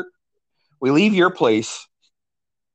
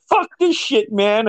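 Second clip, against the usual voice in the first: imitated frustration; 7 semitones higher than usual. Imitates crashed friend's frustration.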